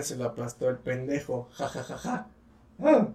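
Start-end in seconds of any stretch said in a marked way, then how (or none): 1.5-3.1 a real laugh breaking into a squeak; cracking laugh. Real, not acted. After the story's punchline, voice cracks laughing. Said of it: "Perdón por ese gallo".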